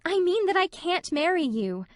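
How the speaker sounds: high, pleading insistence; desperate. A narrator's reading. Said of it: "repeated Anne desperately".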